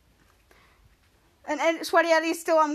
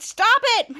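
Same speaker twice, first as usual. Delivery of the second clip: high, loud cry to stop; mock shout; 8 semitones higher, 4 dB louder than usual. Shadow yells at the villain to stop, high and loud. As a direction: yell it at the gross villain.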